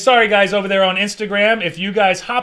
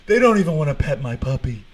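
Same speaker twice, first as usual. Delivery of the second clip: 1 mock sad; 2 semitones lower than usual. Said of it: "He's sad".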